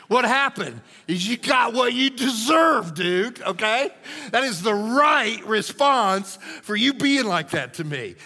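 loud, high gloating; loud, high "you got what you deserve, dude"; payback shout. Pretend. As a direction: yell it like you won. Preacher voicing gleeful payback.

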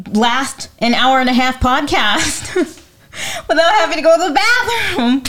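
giggling while confessing; laughing. Real, not acted. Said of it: "It's crazy".

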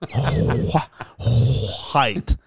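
"white" with exaggerated hw onset; grandma's pronunciation. Co-host hamming up grandma's word, long airy hw in "white". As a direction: blow out the H in "white". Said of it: "she used to say".

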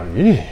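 small mock-frightened "eeh"; scared squeak. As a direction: let out a little pretend cringe of fear. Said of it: "got more scared of him".

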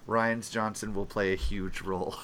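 laughing while trying to keep it together; stifled giggles. Real, not acted. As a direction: hold back a laugh as you speak. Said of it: "He's trying not to laugh".

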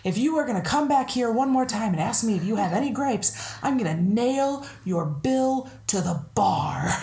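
mock-exasperated bartender, slowing to a threat; hammed-up fed-up ultimatum; bartender flips out. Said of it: "the bartender flips out and he says".

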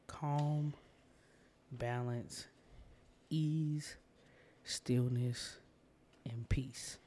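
a list of calm words, each set apart; meditation words. Shown as a demonstration. Host giving listeners calming anchor words, first gentle pass. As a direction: offer each word as an anchor. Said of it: "So I'm gonna say that again".

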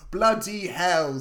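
slow, exasperated bloody hell; grumpy exclaim. Retold or imitated. Otto grumbling at the neighbor's news, slow and exasperated. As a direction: drag out bloody hell like a grumpy old man. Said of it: "says Otto".

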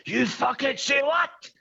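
roofer's rage. Retold or imitated. Roofer retort.

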